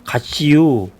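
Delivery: a light Chungcheong lilt on 가시유, lifted a bit; light Chungcheong dialect. Retold or imitated. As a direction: tease it out as a Chungcheong farewell. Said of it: "충청도 사람들은".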